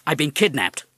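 high, loud talking-parrot voice. Acted. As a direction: squawk it out like a parrot. Parrot reports kidnapping on phone.

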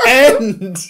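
high, loud drawn-out yell; mock plea yelled at the screen; imitated shout. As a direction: holler one long word, imitating a fed-up viewer. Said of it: "You were like".

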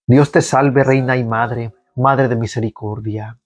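measured liturgical reading of the psalm; psalm recitation. Acted. Prayer leader leading online faithful in psalm, liturgical reading. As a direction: lead the congregation through the psalm. Prays the Salve Regina.

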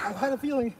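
breathless from jogging; out of breath. Real, not acted. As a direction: talk while still winded. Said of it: "why are you out of breath?".

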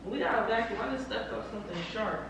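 breathy moaning while talking. Pretend. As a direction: moan through every word. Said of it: "why sound like you fucking talking weird".

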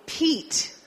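equal drawn out in clear English, falling at the end; slow English model word. Shown as a demonstration. Teacher modelling a word for students, drawn out. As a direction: model equal slowly for the class. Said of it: "La primera sílaba".

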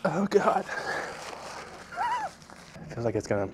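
groaning through burning mouth; mouth burning from spicy food. Real, not acted. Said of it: "thousand knives are being stabbed in my mouth".

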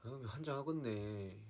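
slow, drawn-out Jeolla exclamation; Jeolla dialect. Shown as a demonstration. Repeating a Jeolla example for fans, slow Jeolla accent. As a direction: stretch it out with a Jeolla lilt. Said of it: "막 이런 거".

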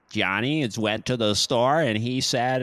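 Brit's mock American accent; exaggerated American twang, imitated. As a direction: imitate a foreigner doing American. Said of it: "they'll do American".

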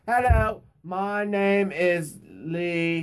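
very slow put-on guest voice; imitating Lee. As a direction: drag it out like the guest. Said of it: "that's how he talks".

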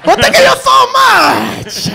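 hammed-up grateful shopkeeper, drawn out; mock hair seller. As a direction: play the sweet seller thanking a customer. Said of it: "he looks like an Asian that just sold me some hair".

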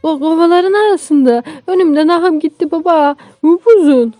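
high, loud alarmed report; scared child. Acted. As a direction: blurt it to Dad in a high voice. Scared boy describes the snake.

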